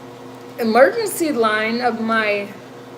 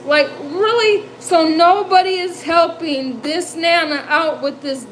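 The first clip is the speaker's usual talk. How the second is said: higher-pitched, put-upon disbelief; mock indignation; 4 semitones higher than usual. Nana complaining nobody will help her, mock indignant. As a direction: protest as if utterly abandoned, playing it up.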